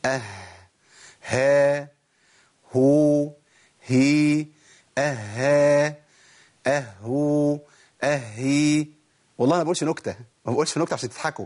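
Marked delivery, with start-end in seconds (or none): 0.0-8.9 each of "ها", "هو", "هي" held with an audible h; Ha drill. Shown as a demonstration. Teacher runs through all the Ha forms, drill. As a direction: chant out "أها", "أهو", "أهي" one by one, h clearly breathed. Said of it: "نقولهم بقى ورا بعض كده".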